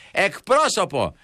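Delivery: slow, high, drawn-out yell at the machine; shouting for an operator. Retold or imitated. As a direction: yell it to get a human on the line. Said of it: "φωνάζω και λέω". (φωνάζει αργά και ψηλά στον τηλεφωνητή)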